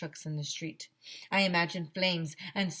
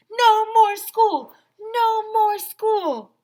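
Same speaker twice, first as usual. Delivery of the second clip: high, loud, slow chant; shouting; 13 dB louder, much slower than usual. Acted. Kid jumping up in assembly, shouting joyfully. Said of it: "I shouted".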